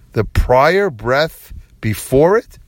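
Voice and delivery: slow, puzzled echo of his own words; baffled self-mocking rerun; slow mocking repeat. Real, not acted. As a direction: repeat it slowly, rising, as if hearing its silliness. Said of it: "We already know that it's before it".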